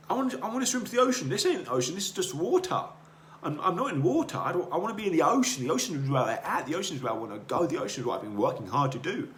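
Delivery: high, loud, insistent little fish; young goldfish. Acted. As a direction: push the words out fast and frustrated.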